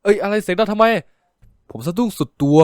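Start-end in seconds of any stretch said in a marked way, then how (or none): 0.0-0.8 startled annoyance. Acted. Startled friend snaps back.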